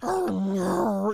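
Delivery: loud crying Gollum wail. Retold or imitated. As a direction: wail it like the creature losing everything. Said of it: "If Gollum".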